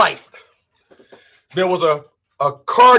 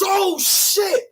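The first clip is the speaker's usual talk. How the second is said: mock excited oh shit; 9 semitones higher than usual. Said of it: "that dude that was".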